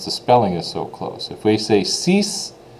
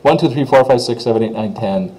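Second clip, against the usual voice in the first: rapid run of English numbers; quick counting; 2 semitones higher than usual. Shown as a demonstration. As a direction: rattle off the numbers without thinking. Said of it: "say it quickly, almost without thinking".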